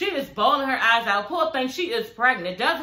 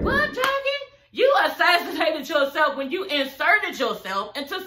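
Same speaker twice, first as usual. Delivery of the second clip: incredulous; 5 semitones higher than usual. Real, not acted. Incredulous outburst at Jackie.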